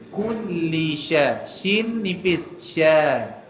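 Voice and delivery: kulli with the l held and pressed, slow; heavy doubled l. Shown as a demonstration. Teacher showing the shaddah pressed on kulli. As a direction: lean on the l in kulli, slowly. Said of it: "Syaddah ni maksudnya kita kena berat, tekan sikit".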